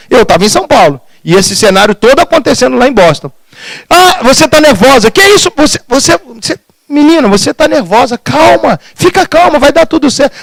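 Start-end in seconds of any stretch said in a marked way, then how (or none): 3.9-10.3 anxious soothing. Retold or imitated. Wife calming agitated mother-in-law.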